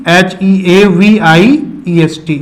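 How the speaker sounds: slow letter-by-letter spelling; spelled out slowly. Shown as a demonstration. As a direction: dictate each letter slowly to the class. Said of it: "in superlative it will be".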